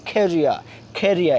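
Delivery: খেরিয়া with a breathy kh; খেরিয়া with the final r dropped and a strong puff of air after the k; silent final r. Shown as a demonstration. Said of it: "শেষে যে আর আছে, আরটা silent থাকবে".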